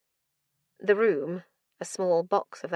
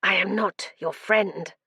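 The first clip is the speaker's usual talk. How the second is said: ragged whisper. Acted. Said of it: "a ragged whisper".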